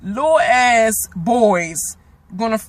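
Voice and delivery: high, loud angry venting; mad rant. Real, not acted. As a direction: rant about the car in real anger. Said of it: "I'm sorry, I'm mad".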